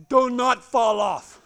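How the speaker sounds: slow, loud, deliberate; emphatic instruction. Retold or imitated. Trainer to nervous rider, slow emphatic order. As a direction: weigh each word as the one rule. Trainer answers with blunt rule.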